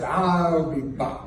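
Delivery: slow, clipped Terminator I'll be back; a light Schwarzenegger impression, x0.5 slow; Terminator line. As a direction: drop it like the Terminator. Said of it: "Then I could be governor of California".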